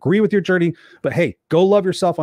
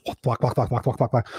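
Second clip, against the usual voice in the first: low, quick chopping rotor noise; imitated helicopter; 3 semitones lower, 4 dB quieter than usual. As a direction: mimic whirring helicopter blades with the mouth. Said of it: "their parents are like helicopters".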